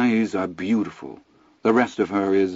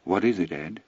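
quiet, calm and even; tranquil; 4 dB quieter than usual. Acted. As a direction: ask serenely. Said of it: "she gazes at him tranquilly".

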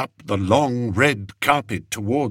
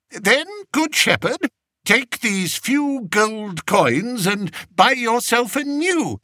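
raised, lightly voiced young king; kingly voice; 13 semitones higher than usual. King telling his adviser to send the shepherd in, higher voice. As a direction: play the king granting an audience. King Fred offers gold.

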